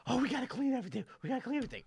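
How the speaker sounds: high, loud fussing; mock panicked grandmother. Grandson mimics grandmother after the guest leaves, mock frantic.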